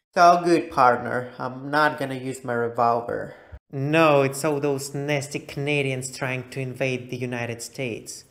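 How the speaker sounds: lightly voiced drawling cowboy. Vlogger playing cowboy to viewers, lightly voiced cowboy. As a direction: play a friendly Texas cowboy.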